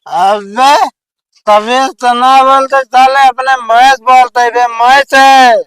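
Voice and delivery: put-on slurred drunk arguing; tipsy and belligerent; town drunk. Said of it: "दारू पिए है का?".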